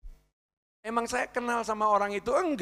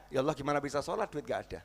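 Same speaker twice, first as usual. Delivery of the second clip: soft, fast, lower complaint; whining quiet prayer; 4 semitones lower, 9 dB quieter, faster than usual. Retold or imitated. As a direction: mutter the excuse to God. (keluhan lirih dan cepat kepada Allah)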